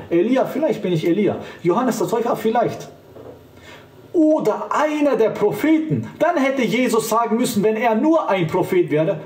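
high, hesitant, mock pondering; mocking hypothetical Jesus. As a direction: parody a Jesus doubting who he is. (Jesus spöttisch nachgeahmt, hoch und zögernd grübelnd)

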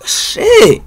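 real angry yell; furious shout. Real, not acted. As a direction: explode at the chat. Furious at chat demands.

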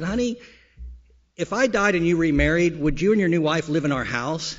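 a touch of a wife probing; wife's voice. Retold or imitated. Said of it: "He said".

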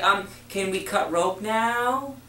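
high, slow, hesitant question rising at the end; timid upspeak. Shown as a demonstration. Trainer mocking a timid rep, high and slow. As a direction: ask meekly, voice lifting up. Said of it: "voice inflecting up is definitely not assertive".

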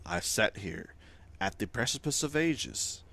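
lightly voiced, solemn ancient weaver. Weaver tells the player of the void, lightly solemn. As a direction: intone it like a weary goddess of time. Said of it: "I spoke in that voice".

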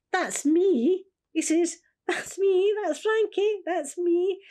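high, loud, tearful cry of recognition; imitating her husband crying out that it's him; excited recognition. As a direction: blurt it out, voice breaking with feeling. Husband recognising himself, emotional.

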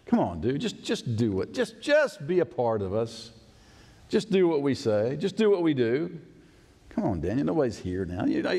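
mildly voiced pushy friend; coaxing friend. A touch of a friend pressuring Daniel. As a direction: wheedle him to join in.

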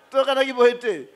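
said through a laugh in a put-on voice. Preacher mimicking a mourner at the wake, laughing. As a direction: chuckle while mimicking the mourner. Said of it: "repeated with laughter".

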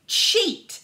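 put-on a pinned boy accusing his rival; panted accusation. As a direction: spit it out breathless and pinned. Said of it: "panted Luther".

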